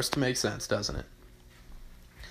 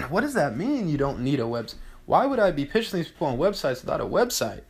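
incredulous; 2 semitones higher, 4 dB quieter than usual. Retold or imitated. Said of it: "I was like".

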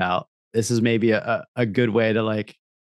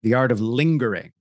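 ad voiceover. Acted. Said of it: "So I'm just gonna say brand for their name".

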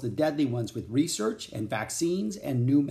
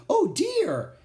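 much higher, louder squeaky little lady; high squeaky exclaim; 5 dB louder than usual. A narrator's reading. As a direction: squeak it out in alarm. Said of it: "exclaimed the woman in a high, squeaky voice".

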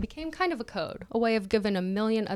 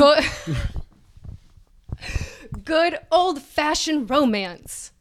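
mock sentimental; 5 semitones higher, 5 dB louder, slower than usual. Mock reverent title.

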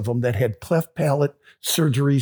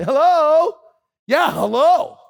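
puzzled hello; 11 semitones higher, 4 dB louder, slower than usual. Retold or imitated. Answering unknown call in Kenya.

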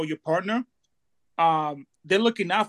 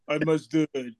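Stallone imitation; 5 semitones lower than usual. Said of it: "the typical Stallone face".

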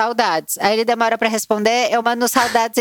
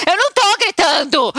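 yelling denial; 7 semitones higher than usual. Retold or imitated. Arguing with someone face to face, a high indignant yell. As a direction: deny yelling while clearly yelling. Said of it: "eu tô doze tons acima".

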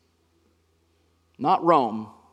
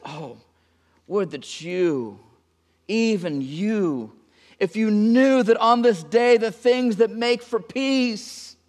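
lament; 5 semitones higher, slower than usual. Acted. Jesus lamenting over his city.

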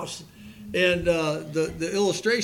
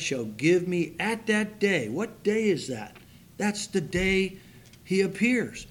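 measured pulpit reading of Second Timothy; scripture reading. Acted. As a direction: read the verse with weight. Reads scripture aloud.

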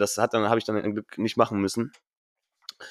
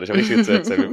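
excited repeat, much higher and louder; excited, bursting to tell; 10 semitones higher, 4 dB louder, faster than usual. Real, not acted. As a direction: blurt it out, eager and high. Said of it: "du merkst grad".

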